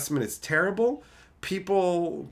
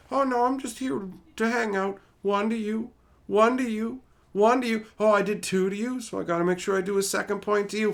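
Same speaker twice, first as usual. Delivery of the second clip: lightly higher, sing-song fake niceness; mock innocent player; 4 semitones higher than usual. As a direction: play the fake friendly player, slightly higher. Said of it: "pretending like".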